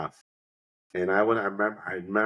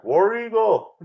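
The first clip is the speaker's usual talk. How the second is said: retold cheer call; 13 semitones higher, 6 dB louder, slower than usual. Bystander calls out team cheer.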